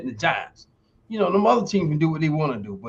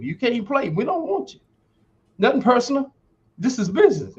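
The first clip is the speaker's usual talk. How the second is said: mock rejection; 7 semitones higher than usual. Mock team voice rejecting player.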